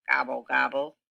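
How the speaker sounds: a low grumbled gobble, gobble; grumbling gobble. Acted. Turkey sulking after Cow sees through him, low grumble. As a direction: mutter it like a sulky turkey. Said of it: "grumbled Turkey".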